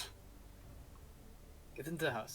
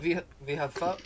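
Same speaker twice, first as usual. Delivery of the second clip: put-on German accent; 3 semitones higher than usual. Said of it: "I gone German".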